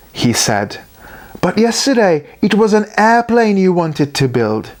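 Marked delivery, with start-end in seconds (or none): 1.4-4.7 clucking Katikit. A narrator's reading. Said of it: "Katikit clucked".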